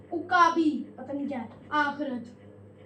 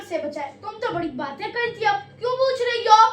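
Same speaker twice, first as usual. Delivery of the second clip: scolding; 4 semitones higher, 5 dB louder than usual. Real, not acted. Scolding a student.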